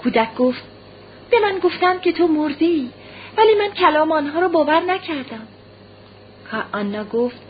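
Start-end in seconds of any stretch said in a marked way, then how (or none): 1.3-5.5 put-on high-pitched little boy voice; earnest child. A narrator's reading. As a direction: tell mother earnestly, like a small child. Child answers mother earnestly. (با صدای زیر و لحن جدی کودکانه)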